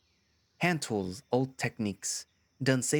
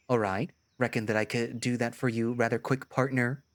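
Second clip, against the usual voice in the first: put-on cowboy accent. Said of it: "tried his best to talk like a cowboy".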